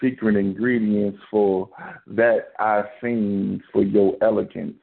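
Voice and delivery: poetry reading. Acted. Reads a sensual poem on air.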